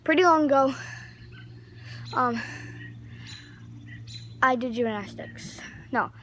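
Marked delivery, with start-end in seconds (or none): 0.0-0.7 pretty long ago said louder, with the stress on long; one last big delivery of the catchphrase; final loud catchphrase. Shown as a demonstration. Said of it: "Here's the last time I'm gonna say".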